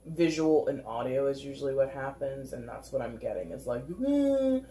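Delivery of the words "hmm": mocking hmm. Shown as a demonstration. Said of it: "is kind of the vocal presentation".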